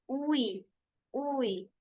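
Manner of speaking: "उई" glided from oo into ee; sound demo. Shown as a demonstration. Teacher giving the next sound, "उई" as one glide. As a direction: say "उई" alone as one joined sound. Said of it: "तो उसके बाद ये वाली है sounds".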